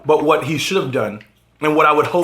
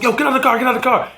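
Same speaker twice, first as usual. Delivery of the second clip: imitated rising anger; 7 semitones higher, faster than usual. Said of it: "he gets, he gets angrier".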